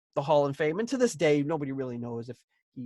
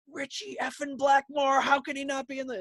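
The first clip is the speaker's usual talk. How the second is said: mock ranting Hitler; 10 semitones higher than usual. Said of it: "he's like".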